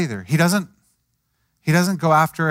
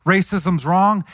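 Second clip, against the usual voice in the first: slow blunt rebuke; 4 semitones higher, slower than usual. Retold or imitated. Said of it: "He doesn't go to Peter and say".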